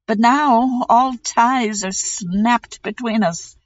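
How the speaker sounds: a hint of an anguished prince; lightly voiced prince. Prince voice in story.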